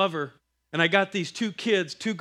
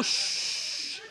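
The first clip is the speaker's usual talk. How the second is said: unvoiced shh; whispered shush; 4 dB quieter than usual. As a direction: hush her in a whisper. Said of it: "I'm like".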